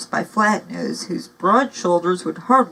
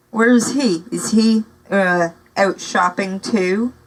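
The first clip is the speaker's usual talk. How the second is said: scornful; 4 dB louder than usual. Acted. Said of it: "asked Basta with a scornful twist".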